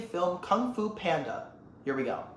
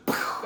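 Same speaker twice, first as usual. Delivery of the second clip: imitated impact noise. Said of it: "he goes".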